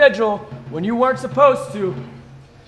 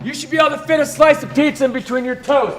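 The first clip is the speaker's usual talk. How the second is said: drill sergeant commands. Real, not acted.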